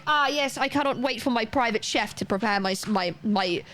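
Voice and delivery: lightly voiced upper-class gent; a hint of pompous toff; mock posh diner. Streamer sending up beans on toast as fine dining, lightly posh.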